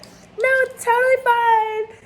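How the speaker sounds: mock insistence. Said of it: "And I was like".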